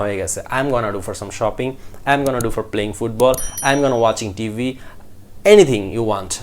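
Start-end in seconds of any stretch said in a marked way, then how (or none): 0.6-4.6 "I am gonna" slurred to "em gonna", fast; connected speech. Shown as a demonstration. Teacher gives practice sentences with gonna, fast and linked. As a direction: run "gonna do" quickly into the sentence. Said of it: "তাড়াতাড়ি বলতে বলতে".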